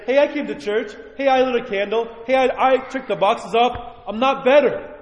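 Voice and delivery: whiny parishioner. Pretend. Parishioner voiced complaining.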